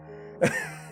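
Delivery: brief, high chuckle; short amused giggle. Real, not acted. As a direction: giggle lightly at your own impression. Amused by own mock quote.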